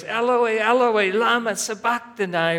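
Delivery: high, loud anguished cry; preacher voicing Jesus crying out from the cross, loud and high. Wail it out high and loud. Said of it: "Jesus cried out in a loud voice".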